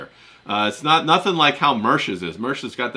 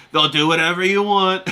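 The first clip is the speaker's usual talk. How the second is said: Trump impression; 4 semitones higher than usual. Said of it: "roast me and my Trump".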